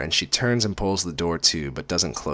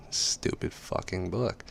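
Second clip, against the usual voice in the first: annoyed whisper under the breath; whispered grumble; 10 dB quieter, slower than usual. Real, not acted. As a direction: whisper it, fed up. Narrator annoyed at the word.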